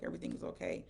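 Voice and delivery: put-on a hushed whisper to calm a child; whispered reassurance. Mom whispers to her scared son that everything's fine, hushed. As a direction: breathe the words gently so the boy settles.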